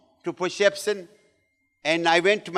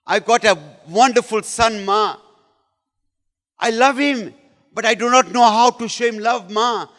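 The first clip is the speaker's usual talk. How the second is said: raised, pleading voice; imitated crying confession; 4 semitones higher, 5 dB louder than usual. Wife confessing to Ma about her son, imitated tearful plea. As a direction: confess it to Ma, acting mildly tearful. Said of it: "And she's crying".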